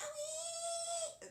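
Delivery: very high pitch, with owie drawn out long. Speaker demonstrates their character's old voice; high-pitched old Swampy voice. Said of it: "Swampy's old voice was kind of high pitched".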